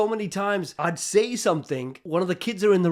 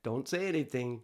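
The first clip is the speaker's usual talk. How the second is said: softer and lower, calm; quiet inner voice; 5 semitones lower, 8 dB quieter than usual. Retold or imitated. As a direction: murmur the warning. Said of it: "I hear the little voice say".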